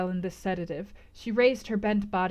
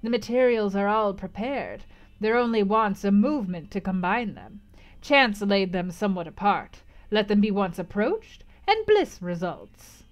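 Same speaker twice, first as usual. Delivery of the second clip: lightly voiced gypsy teasing fate; gypsy fortune-teller; 4 dB louder than usual. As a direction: coax her toward bliss. Gypsy hints at happiness.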